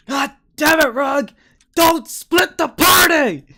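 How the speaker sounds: high, full-force scolding shout; loud, high in-character outburst; exasperated yell. Acted. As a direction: bellow at your reckless companion. Khajiit scolding companion, acted out.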